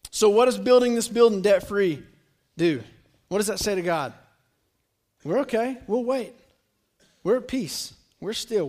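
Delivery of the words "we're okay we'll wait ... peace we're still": soft, settled reassurance; calm trust. Acted. Congregation telling God they will wait, soft calm trust. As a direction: say it quietly, with unforced patience.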